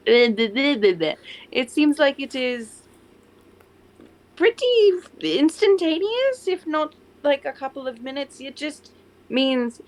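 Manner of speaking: put-on slow, careful French-accented restart; slow, hesitant put-on French accent. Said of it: "I'm slipping into French".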